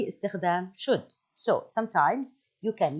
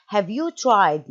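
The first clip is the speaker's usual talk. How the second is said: "have you tried" drawn out, louder; slow emphatic phrase; 5 dB louder, slower than usual. Shown as a demonstration. Teacher stressing the advice opener. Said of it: "stretched advice phrase".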